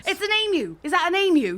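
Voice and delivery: high-pitched astonished outburst; exclaim, then question it in alarm; startled excitement. Acted. Giant bird appears beside them.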